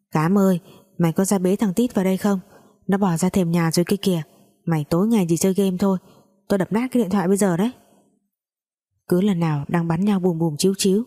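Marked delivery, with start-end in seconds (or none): 0.1-7.7 rushed, nagging call from the kitchen, speeding up; mock yelling mother. Mother yelling at her gamer kid, a mild mock yell. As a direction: hurry the scolding faster and faster. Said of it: "Mẹ tôi đang pha sữa gào um lên".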